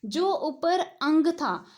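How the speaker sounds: slow down and lean on अंग; stressed contrast. Shown as a demonstration. Teacher contrasting anusvara with visarga, slow and loud. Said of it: "थोड़ा सा difference करके पढ़ेंगे".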